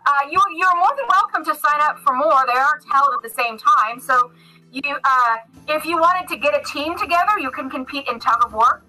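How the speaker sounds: lightly voiced jovial, busy official; a hint of a hearty centaur addressing the group; centaur games official.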